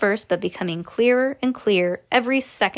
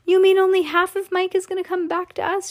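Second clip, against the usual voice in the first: horrified cry; 10 semitones higher, 3 dB louder than usual. Acted. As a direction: cry it out high, aghast. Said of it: "let out a scream of horror".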